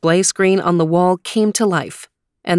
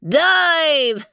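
yelled command; 10 semitones higher than usual. Acted. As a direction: shout it again with relish. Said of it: "The Weezer appeared and yelled".

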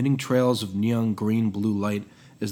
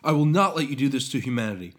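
raised, defiant declaration; heroic shout; 5 semitones higher than usual. Acted. Prometheus defying his master, heroic shout. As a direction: stand firm like a hero. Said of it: "Prometheus shouted heroically".

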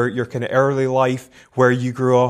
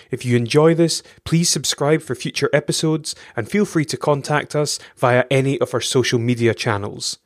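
smooth, even announcer read over music; polished radio-style intro; podcast intro read. Acted. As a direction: read it like a recorded show opener.

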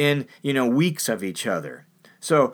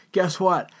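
defiant host; 5 semitones higher than usual. Retold or imitated. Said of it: "the host is like".

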